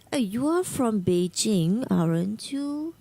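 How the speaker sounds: "aren't you" going down, unsure; falling intonation. Shown as a demonstration. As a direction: say "aren't you" with a falling tune, not so sure. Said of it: "let's say my intonation was going down".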